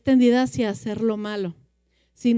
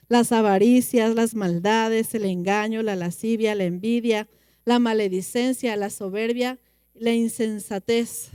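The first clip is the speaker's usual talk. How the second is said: solemn reading of a verse list; scripture reading. Acted. Reads Bible verse aloud.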